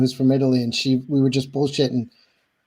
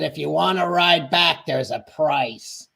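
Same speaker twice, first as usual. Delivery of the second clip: slow menacing quote; 4 dB quieter, slower than usual. Retold or imitated. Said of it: "he said".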